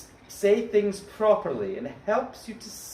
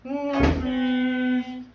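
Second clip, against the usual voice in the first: face exercise; 4 semitones higher, much slower than usual. Shown as a demonstration. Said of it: "Should do a bit of a big face".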